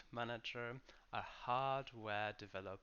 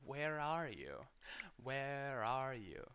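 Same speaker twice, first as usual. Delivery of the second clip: louder calling where are you, stress on ARE; 3 semitones higher, 3 dB louder, slower than usual. Pretend. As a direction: call out where are you like searching for someone. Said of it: "It's like when you ask".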